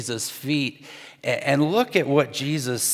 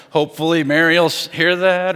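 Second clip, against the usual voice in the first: passive-aggressive; 3 semitones higher, 5 dB louder than usual. Retold or imitated. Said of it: "passive-aggressive thoughts".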